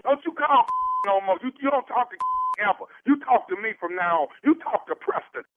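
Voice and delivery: angry stepfather. Acted. Prank caller posing as angry stepfather.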